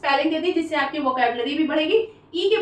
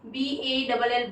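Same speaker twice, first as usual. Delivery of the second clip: slow spelling out; 3 semitones lower, 5 dB quieter, slower than usual. Shown as a demonstration. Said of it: "जैसे ये bowl होता है ना".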